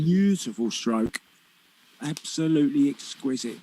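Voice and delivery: rising, delighted praise; excited praise. Real, not acted. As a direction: gush over the shot. Praising a great shot.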